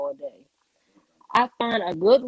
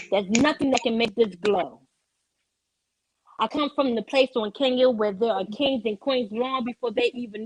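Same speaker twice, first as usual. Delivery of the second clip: rhythmic performed poem with acted dialogue; spoken word poem. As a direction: deliver it like a slam poetry stage piece.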